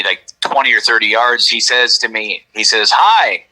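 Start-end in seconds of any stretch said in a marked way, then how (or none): 2.9-3.4 higher, lifted passing 'hi'; casual greeting. Retold or imitated. Government man greets hiker on the trail, casual greeting. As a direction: imitate a stranger's offhand street hello. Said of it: "like you would just say if you were walking on the street".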